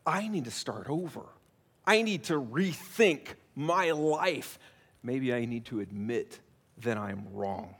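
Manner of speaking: introspective. Retold or imitated. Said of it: "it's the".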